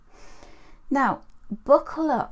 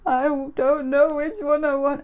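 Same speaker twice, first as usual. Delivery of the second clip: loud, higher mock-toddler wail; crying little boy; 4 semitones higher, 6 dB louder than usual. Boy offered sweets by grandma, loud mock crying. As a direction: imitate a tearful, indecisive child. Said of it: "he was like that".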